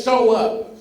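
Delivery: loud, forceful call; power and conviction. Shown as a demonstration. Speaker telling the crowd to say it with power. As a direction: command it with conviction. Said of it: "with power and conviction".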